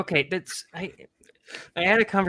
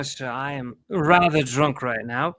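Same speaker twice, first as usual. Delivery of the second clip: put-on terrible British accent. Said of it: "That was a terrible accent".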